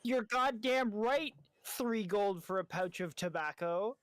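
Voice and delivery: indignant retort. Acted. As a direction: push back hard on the price. Merchant haggles back over price.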